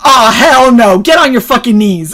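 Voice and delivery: loud, mock drill-sergeant bark; hammed-up sergeant ordering you down; drill sergeant yell. Sergeant ordering the tall recruit down, loud mock yell. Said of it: "and she goes".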